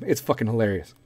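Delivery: usual speaking voice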